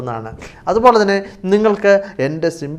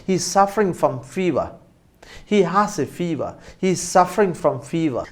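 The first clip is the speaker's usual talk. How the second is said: slow model sentence; 2 semitones higher, much slower than usual. Shown as a demonstration. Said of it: "ഇങ്ങനെ വേണമെങ്കിലും പറയാം".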